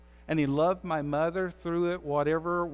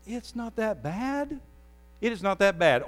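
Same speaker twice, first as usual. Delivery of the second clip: mock shrug; 4 semitones higher than usual. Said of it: "I have said that".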